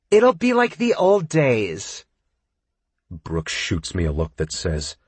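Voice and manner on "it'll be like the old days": high, slow, slurred coaxing; drunk whining. A narrator's reading. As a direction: whine drunkenly, oblivious.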